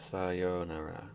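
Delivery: Sayonara drawn out slowly, rising; slow puzzled reading. Shown as a demonstration. Streamer checking the spelling, slow puzzled read. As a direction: sound out Sayonara doubtfully. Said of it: "He didn't spell sayonara right".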